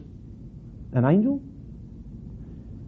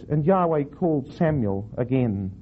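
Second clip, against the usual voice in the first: slow, deliberate Bible reading; unhurried storytelling from scripture. Shown as a demonstration. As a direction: read the verse aloud with measured weight. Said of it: "I'll read the whole verse".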